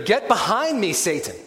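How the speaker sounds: Jesus turning on Peter, a stern loud rebuke; emphatic rebuke. Acted. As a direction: rebuke him firmly. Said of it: "Jesus responds rather emphatically".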